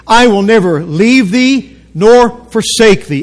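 slow, evenly spaced phrases for others to join; deliberate call to recite together; leading a recitation. Real, not acted. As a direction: lead the room through it slowly. Leads congregation in saying verse.

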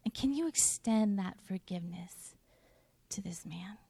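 soft, fading to a hush; gentle, ending near a whisper; sweet gentle voice. Retold or imitated. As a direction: speak tenderly as God would. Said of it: "God just was, like, so sweet".

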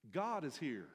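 high and loud, God punched; loud proclamation. Real, not acted. Preacher proclaiming to the congregation, loud. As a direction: declare it to the whole room.

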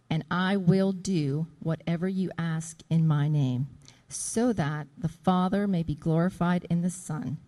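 fervent scripture reading to the congregation. Acted. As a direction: proclaim the Gospel passage with conviction. Reads John fourteen aloud.

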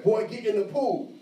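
P=A; forceful father's order. Retold or imitated. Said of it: "But it was very forceful".

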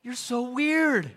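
laughing, slow and teasing; laughing wife. Retold or imitated. Wife cracking up at husband's crow calls, laughing. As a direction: tease him through a laugh. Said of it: "She'll be going".

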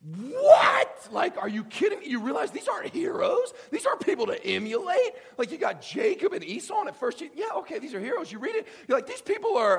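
high, loud incredulous outburst; a scandalised reader yelling at the book; shocked shout. Retold or imitated. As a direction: rail like a reader who can't believe the page. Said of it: "you're suddenly shocked by".

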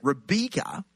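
Rebecca said the New Zealand way, as "Rebeeka"; Kiwi pronunciation. Shown as a demonstration. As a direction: Kiwi accent, middle vowel turned to a long ee. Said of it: "but she says it".

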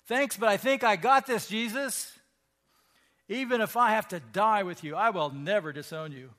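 loud, high, self-assured brush-off; cocky boast. Acted. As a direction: wave off the warning, cocksure. Peter voiced boasting to Jesus.

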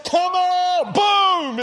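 high loud shout. Acted. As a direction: command it with full force. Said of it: "What if you just said".

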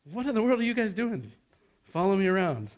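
high, fast, playful retelling; breezy, teasing take; casual paraphrase. Shown as a demonstration. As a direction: toss it off like a buddy. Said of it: "I don't know if he said it quite that emphatically".

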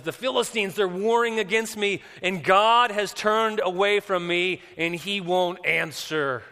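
loud, high pleading, slowing toward the end; desperate acted plea. Preacher as Saul telling Samuel God has left him, desperate plea.

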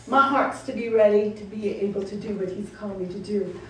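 ordinary talk, nothing marked

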